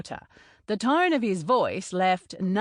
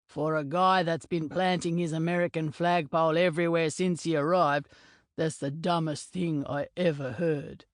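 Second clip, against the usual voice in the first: lightly voiced big Maori teammate; faster than usual. Narrator voices Donovan.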